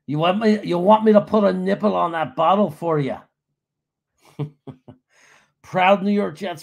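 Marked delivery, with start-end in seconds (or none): 0.1-3.2 louder, taunting jeer; mocking heckler. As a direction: taunt him like a baby, loudly. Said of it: "I've had people come up to me".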